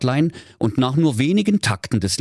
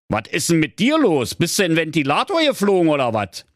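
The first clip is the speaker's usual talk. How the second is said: higher, brash questioning donkey; blunt donkey; 11 semitones higher than usual. Acted. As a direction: ask bluntly as the cheeky donkey. Donkey addresses the parrot. (schnoddriger Esel, höhere Stimme)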